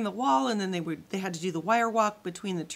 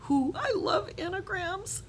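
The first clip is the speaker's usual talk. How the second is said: breathed; 12 semitones higher, slower than usual. A narrator's reading. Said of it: "breathed Abby".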